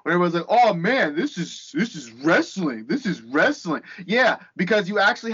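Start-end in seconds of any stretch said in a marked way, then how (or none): 0.5-3.8 drawn-out, lightly mocked awe; mock gushing fan. Wrestling fan parodying Twitter's raves about a match, mock gushing. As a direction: imitate an overawed fan, slowing down.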